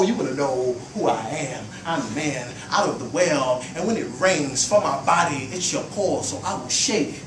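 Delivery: rhythmic spoken-word flow; poem recital. Acted. Poet reciting about his identity, rhythmic spoken word. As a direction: ride the beat of the verse.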